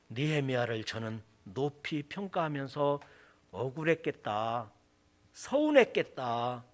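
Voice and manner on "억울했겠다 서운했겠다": low, gentle sympathy; sympathetic. Acted. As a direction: feel for him, voice lowered. Preacher sympathizing with Nehemiah.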